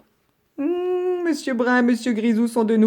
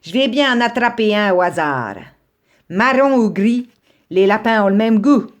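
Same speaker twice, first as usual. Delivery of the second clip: greedy fox; 3 semitones higher, 5 dB louder than usual. Acted. Fox gropes in the burrow.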